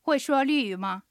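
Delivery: slow, careful model reading; measured syllables for learners to repeat; pronunciation practice. Shown as a demonstration. Host repeats today's sentence in practice, slow and careful. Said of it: "発音と合わせて練習してみましょ".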